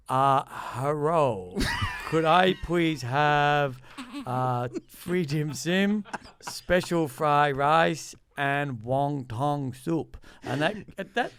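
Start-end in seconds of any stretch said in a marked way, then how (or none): 0.1-10.2 slow, overdone mock Asian accent, drawn out. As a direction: order dim sims very slowly in a hammed-up Asian accent. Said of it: "I sort of do it like".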